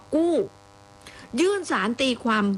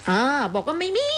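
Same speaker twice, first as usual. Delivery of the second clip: host reading the government denial, voice pitched up mockingly; mock squeaky second voice; 4 semitones higher than usual. A teasing high little voice with a mocking edge. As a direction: pitch it up in a put-on sweet voice. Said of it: "ทำไมต้องทำเสียงสองบุรีรัตน์".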